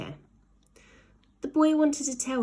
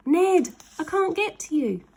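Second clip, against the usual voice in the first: higher, louder frantic cry; screamed; 9 semitones higher, 5 dB louder than usual. A narrator's reading. Slime stuck high in the sky calling down to Ned, frantic. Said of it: "the boy screamed".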